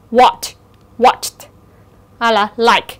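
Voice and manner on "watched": watched ending in ch plus t. Shown as a demonstration. Teacher demonstrates the ED rule, watched ending on t. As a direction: finish watched with a voiceless t. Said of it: "E D đó sẽ được phát âm là âm".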